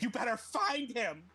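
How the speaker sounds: acted menacing order; cutting words. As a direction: make each word cut, drawn out. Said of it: "say to him with my, my, words that, that cut".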